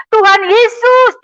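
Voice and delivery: high, loud, slow cry of the name; woman reliving her cry on waking from a coma; shouting out. Retold or imitated. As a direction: cry out to Jesus, drawn out. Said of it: "Saya berteriak".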